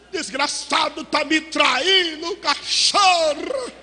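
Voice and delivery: drawn-out bitter insults; a betrayed man cursing, slow and bitter; acted cursing. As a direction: spit the insults out slowly. Betrayed man cursing his rival.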